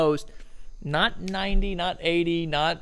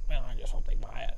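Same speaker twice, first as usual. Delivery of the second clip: anxious muttering; 4 semitones lower, 3 dB quieter, faster than usual. Pretend. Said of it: "you're like".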